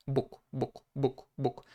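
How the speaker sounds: "buk" repeated softly, ending in k; voiceless final k. Shown as a demonstration. Teacher showing the voiceless counterpart of G, soft devoiced ending. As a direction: say "buk" quietly with an unvoiced k. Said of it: "we have to use the voiceless counterpart".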